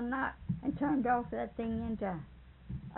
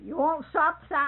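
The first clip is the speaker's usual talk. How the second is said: loud demand; 5 semitones higher, 8 dB louder than usual. Retold or imitated. Becky hits him, offers sop.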